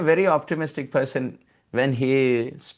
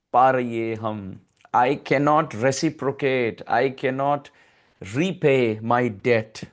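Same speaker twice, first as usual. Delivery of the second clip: humble gratitude; 3 semitones lower than usual. Acted. Krishna humbly addressing the gopis.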